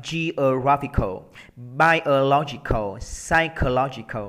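"Geographical, biological, psychological", each stressed on the third syllable; slow word list, beat on GRAPH and LOG; weak second syllable, strong third in "biological". Shown as a demonstration. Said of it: "Thì mình sẽ đọc như vậy này".

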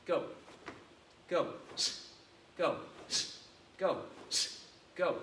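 barked commands. Shown as a demonstration. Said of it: "Are you ready for normal speed".

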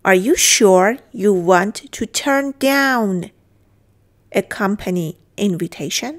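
very slow, stretched teacher reading; slow model sentence. Shown as a demonstration. Teacher modelling the sentence for students, very slow. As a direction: draw out each word for learners. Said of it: "teacher models English line".

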